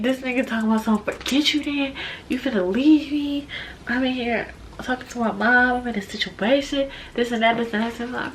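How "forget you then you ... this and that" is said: mock blow-up. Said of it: "this nigga just blow up".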